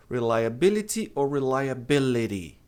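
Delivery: reliability with the T turned into a quick R tap; flapped T. Shown as a demonstration. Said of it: "o T ladeado por som de vogal". (reliability com o T virando R)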